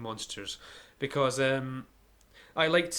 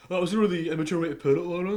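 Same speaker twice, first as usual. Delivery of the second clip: quick, louder teasing rebuke; mock scolding; 5 semitones higher, 5 dB louder, faster than usual. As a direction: scold her in jest, rapidly. Teasing rebuke of crude phrase.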